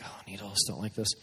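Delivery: low, soft mock dread; quietly imitating needle dread; reluctant aside. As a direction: grumble it softly to yourself.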